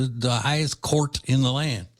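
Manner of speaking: imitating a Cajun accent on "court". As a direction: have a go at a Cajun-accented phrase. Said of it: "You listen to the way he speaks".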